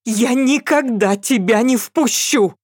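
shouting. A narrator's reading. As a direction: yell it with full force. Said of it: "крикнула Новикова".

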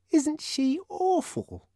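put-on high, slow child voice, not truly whispered; a lightly voiced kid gawping; whispered child comment. A narrator's reading. Twin gossiping about Linda, high child voice. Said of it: "came the whispered comments".

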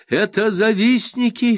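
high slow loud shout. A narrator's reading. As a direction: cry it out, outraged. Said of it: "кричит встрёпанный Василь".

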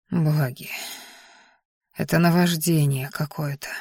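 low, hushed, overwhelmed murmur; whispering. A narrator's reading. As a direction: whisper it as if losing control. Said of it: "прошептал он".

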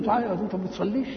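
put-on quick, accusing rebuke of the boy; scolding reproach. Shown as a demonstration. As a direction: scold him fast for skipping prayer. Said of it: "تنكر عليه". (توبيخ سريع بنبرة استنكار)

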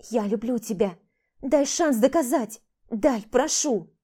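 rising to a loud, slowed plea; begging. Acted. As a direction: beg him for a chance. Vlada begs for a chance. (умоляюще, нарастая)

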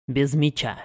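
plain reading voice

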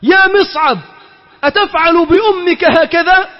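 high pleading mother, a touch tearful; lightly voiced crying mother. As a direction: beg your son through tears, high and strained. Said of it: "وكانت أمه تبكي وتقول".

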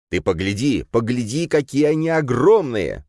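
put-on boy at the fence, amazed by the cows; exclaiming. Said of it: "воскликнул Кирилл".

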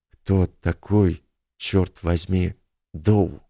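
hoarse and slow, roughened voice. Acted. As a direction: rasp it out, hoarse from shock. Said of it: "спросил Йорк хрипло".

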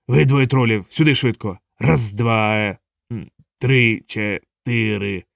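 a hint of a proud troll sergeant; mock drill sergeant.

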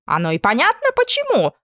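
very high, squeaky blurt; blurted retort. Acted. Camp cook blurting a jab at the cook, squeaky. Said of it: "выпалил кошевар".

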